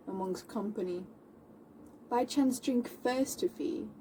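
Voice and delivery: outspoken challenger, declaiming with sudden stressed bursts; theatrical period monologue, broken by weighty pauses; Moll. Acted. Moll answering the man who insulted her, declamatory and indignant. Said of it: "I'll be playing Moll".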